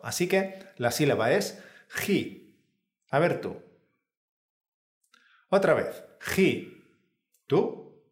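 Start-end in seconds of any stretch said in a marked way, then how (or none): 1.9-2.6 ji with a strong, rasped throat J; exaggerated Spanish J. Shown as a demonstration. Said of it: "te animamos a que la exageres mucho". 6.2-6.8 ji with a strong throat-friction J; exaggerated Spanish J. Shown as a demonstration. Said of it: "te animamos a que la exageres mucho".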